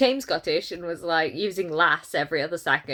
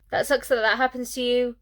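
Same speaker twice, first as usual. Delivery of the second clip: the same line again, higher and mocking; mocking repeat; 5 semitones higher than usual. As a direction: parrot it back higher to show how clumsy it is. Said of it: "the other character replies".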